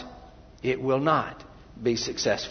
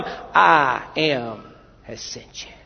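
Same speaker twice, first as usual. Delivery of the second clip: solemn voice of God; 4 dB louder, slower than usual. Acted. Preacher telling the church what to answer, slow and solemn. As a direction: deliver it as God's own name, weighty. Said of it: "you tell them".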